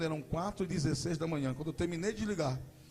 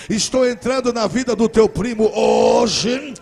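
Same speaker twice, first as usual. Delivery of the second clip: starts firm and loud, swells into a slow, high shouted prophecy; prophesying cousin, building; 6 semitones higher, 16 dB louder, slower than usual. Retold or imitated. Cousin prophesying over Wellington, building to a shouted proclamation. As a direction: proclaim it, rising until you are crying out. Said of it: "ela disse pra mim assim".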